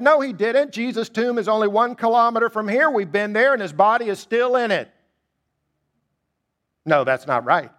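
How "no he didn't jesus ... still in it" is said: scoffing crowd. Acted. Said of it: "they scoffed at Peter and said".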